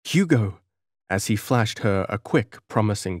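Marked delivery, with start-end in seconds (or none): 0.0-0.6 gasped. Acted. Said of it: "The girl gasped".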